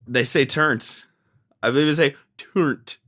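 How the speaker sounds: playing at sounding British, lightly; mock British accent. Jokingly putting on a British accent to a co-host. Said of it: "That's my British accent".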